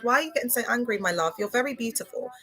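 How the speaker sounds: gently, as her mum soothing her; imitating mum. Soft imitation of her mum giving calm advice. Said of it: "She said".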